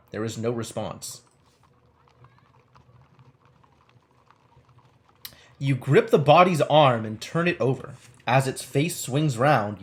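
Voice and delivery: suspenseful game-book narration; story narration. Acted. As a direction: draw out the creepy reveal, then build to the leap. Reads game text aloud.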